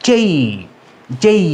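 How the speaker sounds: "যেই" gliding from e into i; corrected letter name. Shown as a demonstration. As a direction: end "যেই" on a clear ee. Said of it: "উচ্চারণ হবে".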